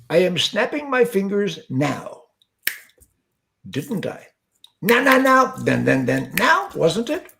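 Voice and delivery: a mild, self-mocking Indian accent; lightly hammed Indian guru voice. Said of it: "I can't do an Indian accent, but I'm gonna give it my best shot".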